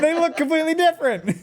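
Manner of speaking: high, loud, breaking into laughter; laughing protest. Real, not acted. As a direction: squeal it through laughter. Laughing at friend's mistake.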